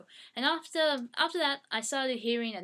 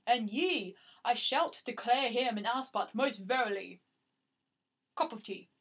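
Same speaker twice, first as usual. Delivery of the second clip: lightly hammed-up olde-worlde grandeur; playfully la-di-da declaration; mock classy. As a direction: make a mock proclamation, far too classy. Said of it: "that sounds way too classy".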